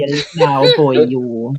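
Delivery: playful Welsh Valleys lilt; mock Valleys Welsh; Valleys accent. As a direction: put on a Welsh accent for banter. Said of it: "it could be a Valley's accent".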